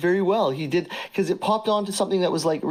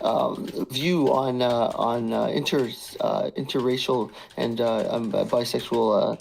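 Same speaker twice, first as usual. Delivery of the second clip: mock hesitant message; 3 semitones lower than usual. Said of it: "it should be like".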